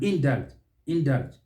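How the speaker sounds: "indulge" as IN-dult; wrong pronunciation. Shown as a demonstration. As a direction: end "indulge" wrongly on a hard t. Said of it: "which is wrong".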